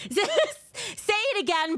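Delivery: laughing through the words; giggling while talking. Real, not acted. Laughing at friend's glitch.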